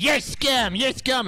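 mocking protester. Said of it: "some bitch gets in my face, like".

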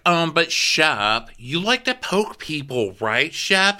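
a hint of a prim castmate questioning Shep; prim Leva. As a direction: coax him gently. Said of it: "Leva's like".

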